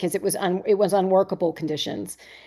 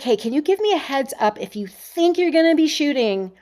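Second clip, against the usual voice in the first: polite request; 6 semitones higher than usual. Retold or imitated. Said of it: "I was just like".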